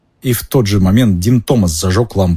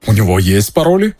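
proud. Acted. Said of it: "гордо произнёс сэр Кэддиган".

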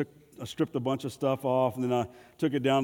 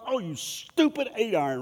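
mock frustration; 5 semitones higher than usual. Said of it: "You hit a bad shot".

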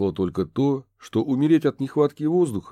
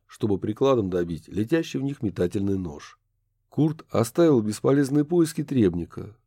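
plain reading voice

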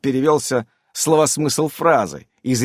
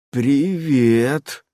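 slowly. A narrator's reading. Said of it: "медленно произнёс Иннокентий".

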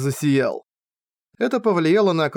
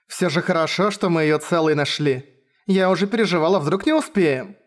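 caring voice; 2 semitones higher than usual. Acted. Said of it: "Раздался заботливый голос из-под шлема".

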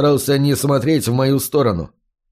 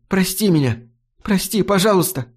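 tearful plea; 6 semitones higher than usual. A narrator's reading. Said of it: "на глазах её блестели слёзы".

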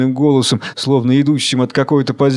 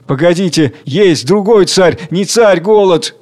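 high, urgent interjection; agitated; 5 semitones higher, 3 dB louder than usual. Acted. Worker insists to the laughing crowd, agitated. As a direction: break in with anxious excitement. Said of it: "Волнуясь и спеша говорит".

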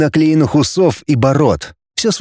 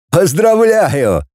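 high, slow, drawn-out congratulation; exclaiming; 5 semitones higher, much slower than usual. A narrator's reading. Арьков congratulates his transformed friend, exclaiming. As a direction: proclaim it with long stretched vowels. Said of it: "воскликнул Арьков".

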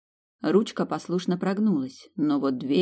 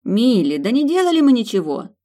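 sincere; 6 semitones higher, 7 dB louder than usual. Acted. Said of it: "совершенно искренне заверила её Анна".

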